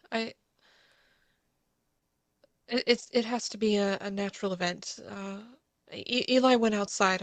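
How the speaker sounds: a touch of fear, halting; shaken stammering. Acted. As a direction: try to explain it away, rattled.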